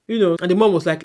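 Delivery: ordinary talk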